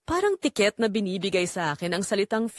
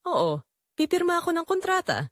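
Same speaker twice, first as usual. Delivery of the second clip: a sudden break into tears mid-line; tearful; 10 semitones higher than usual. Acted. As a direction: voice catching with tears, pitched up. Leaving husband, emotional promise.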